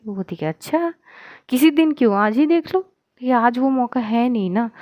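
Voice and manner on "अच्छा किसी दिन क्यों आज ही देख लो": bright teasing dare, higher; playful challenge. Acted. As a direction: tease her back with a grin. (शरारत से चुनौती)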